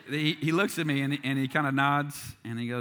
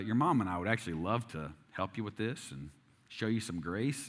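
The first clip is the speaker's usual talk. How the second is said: softer, calm fatherly advice; a dad quietly and tenderly offering help; gentle fatherly; 5 dB quieter than usual. Retold or imitated. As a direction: gently nudge a stubborn teenage son. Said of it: "he was trying to gently, subtly point that out".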